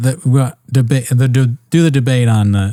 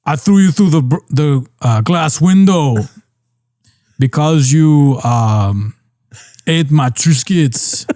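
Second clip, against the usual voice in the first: put-on Schwarzenegger accent; 3 semitones higher, slower than usual. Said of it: "it's hard to do the voice".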